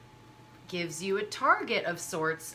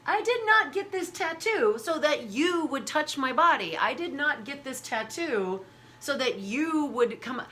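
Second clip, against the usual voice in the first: indignant retort; 5 semitones higher than usual. Retold or imitated. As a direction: set the stranger straight firmly. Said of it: "And I'd be like".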